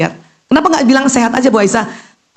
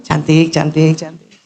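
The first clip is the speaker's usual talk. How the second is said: prayerful affirmation; 5 semitones lower than usual. Shown as a demonstration. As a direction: pray it gently in front of the mirror. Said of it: "Itu maka cantik beneran".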